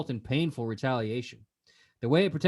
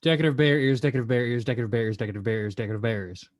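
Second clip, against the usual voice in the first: tongue twister; 6 semitones lower, much faster than usual. Shown as a demonstration. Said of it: "five times fast".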